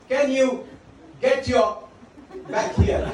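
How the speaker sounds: laughing, half-hearted mock yell of an angry schoolgirl; mild mock shout. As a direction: retell the shout lightly, breaking into a laugh. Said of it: "You shouted at the top of your voice".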